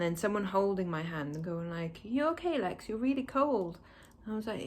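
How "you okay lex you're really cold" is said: lightly voiced carer, pitched up; a hint of a fussing nurse; imitated concerned carer. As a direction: check on a waking patient in a higher voice. Retold staff checking on waking patient.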